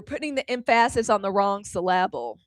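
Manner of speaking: "emphasis" said em-FASS-is, "syllable" said sil-LAB-le; joking misplaced stress. Pretend. Host teasing young woman's logic, "emphasis" and "syllable" stressed on the wrong beat.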